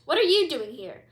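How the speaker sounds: loud, high angry question; furious queen confronting the crocodile; snapping demand. Acted. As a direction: demand an answer from the intruder. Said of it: "she snapped".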